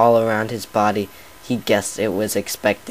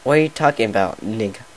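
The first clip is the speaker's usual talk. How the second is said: mock pony retort; faster than usual. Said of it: "what basically said".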